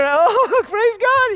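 high, loud, giddy praise; imitating a joyful worshipper laughing. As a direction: act out someone overcome with joy. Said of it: "and you're".

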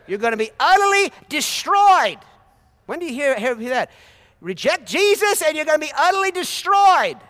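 high, loud mock doom; ironic loud warning. Real, not acted. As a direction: play up the harsh words with irony. Preacher mock-shouting the warning.

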